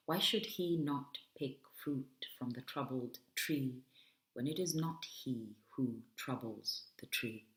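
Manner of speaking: measured poem recital with deliberate pauses; poetry reading. Acted. Poet reading to an audience as a provocation, poetry reading. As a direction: read it as verse, phrase by phrase.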